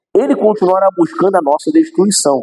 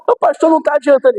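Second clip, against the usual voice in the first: mãe queixosa; 9 semitones higher than usual. Retold or imitated. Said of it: "e daqui a pouco".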